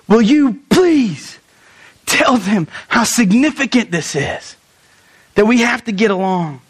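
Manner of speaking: slow, pressing plea; urgent plea. Retold or imitated. Paul gripping the messenger's shirt, slow urgent plea. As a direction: grab their shirt and press each word. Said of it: "grabbed them by their shirt and said".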